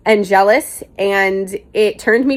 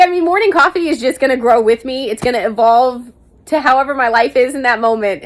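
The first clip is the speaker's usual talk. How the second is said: ordinary talk, nothing marked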